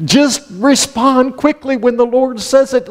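high, slow, drawn-out plea; exasperated plea. Real, not acted. Preacher to slow-responding givers, exasperated plea. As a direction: plead it high and stretched out.

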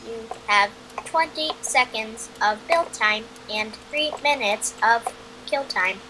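flat robotic game-rules read. Real, not acted. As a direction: read it like a machine announcer. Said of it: "You sound like a freaking robot".

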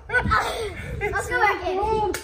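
in ice cold water. Real, not acted. In the freezing water.

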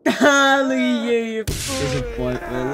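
mocking taunt. Real, not acted. Mocking a trapped player.

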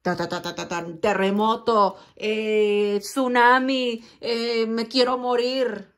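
hammed-up inner turmoil. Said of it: "Estoy exagerando".

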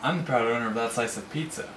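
muttering. Acted. Muttered threat.

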